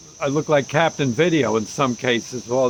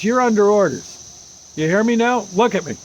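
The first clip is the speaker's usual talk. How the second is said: put-on old Army doctor giving orders; 6 semitones higher than usual. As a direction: lay down the law to the patient. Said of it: "it's an old Army doctor".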